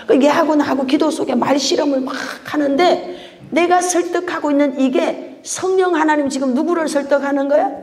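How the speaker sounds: ordinary talk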